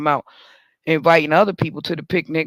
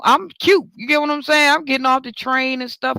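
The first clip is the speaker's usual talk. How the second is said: playful bragging; 6 semitones higher than usual. Real, not acted. Telling the listeners she's cute, sassy brag. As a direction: show off, sassy and pleased. Bragging about her looks.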